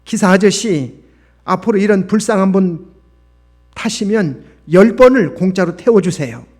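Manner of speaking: scolding. A narrator's reading. Schoolgirl paying the fare and telling off the driver, scolding. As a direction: lecture him firmly, high and loud. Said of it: "호통을 치는 것이었습니다".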